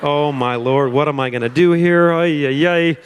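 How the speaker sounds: reliving the moment he panics on air; retold panic. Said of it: "I'm like".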